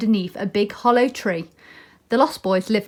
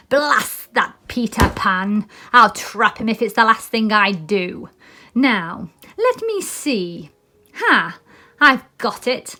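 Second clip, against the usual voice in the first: slow, lightly voiced scheming pirate; a hint of a villain plotting revenge; Captain Hook; slower than usual.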